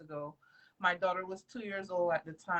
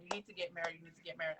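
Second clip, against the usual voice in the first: flat lawyer advice; 3 semitones lower, 10 dB quieter, much faster than usual. Retold or imitated. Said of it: "Every lawyer I went to said".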